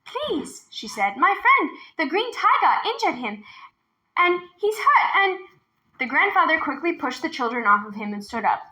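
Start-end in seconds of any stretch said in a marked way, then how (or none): 0.0-5.4 put-on high, urgent pleading girl. A narrator's reading. Minley begging the grandfather to help her friend, high and urgent. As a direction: beg for help. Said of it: "rushed up with a hurried bow".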